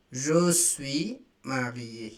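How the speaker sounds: Je suis marié said slowly, each word apart; slow it down so learners can copy; slow repeat. Shown as a demonstration. Teacher repeating the phrase slowly for students. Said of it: "I am married".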